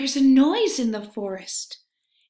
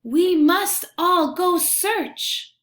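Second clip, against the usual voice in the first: higher, louder chirpy bird voice; tweeting bird; 7 semitones higher, 4 dB louder than usual. A narrator's reading. Wren tweets from his perch to the friends, chirpy and high. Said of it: "Wren tweets".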